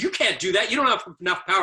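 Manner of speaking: put-on a kid yelling back that you can't; angry student shouting he lacks the power; retold defiant shout. Defiant young skier retold.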